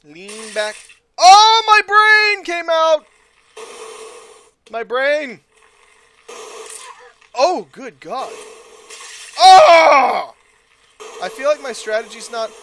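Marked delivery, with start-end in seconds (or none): 1.2-10.3 much higher, louder and slow mock wail; hammed-up horror. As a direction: cry out in fake horror. Character's brain pops out.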